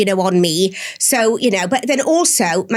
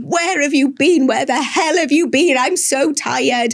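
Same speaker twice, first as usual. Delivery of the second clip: raised, slow and pleading, reliving the outburst; half-hearted replay of a frantic yell; retold hysterical yell; 4 semitones higher, slower than usual. New mum yelling at her late husband at the door, hysterical. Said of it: "was hysterical".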